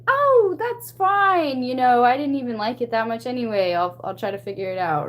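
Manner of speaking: high, bright forced-casual reassurance, then settling; sugary pretend it's fine; fake cheerful. Painter recalls covering her hurt with a chirpy high pretend it's fine. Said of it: "I was like".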